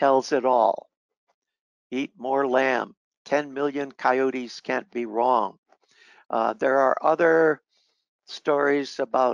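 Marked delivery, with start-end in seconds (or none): none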